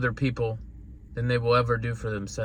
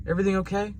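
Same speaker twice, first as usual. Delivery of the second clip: concerned father; 5 semitones higher, much faster than usual. Retold or imitated. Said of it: "my daughter came in crying, hysterical".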